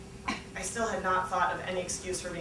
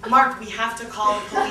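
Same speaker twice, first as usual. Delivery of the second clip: worried; 6 dB louder than usual. Retold or imitated. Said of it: "my roommate said".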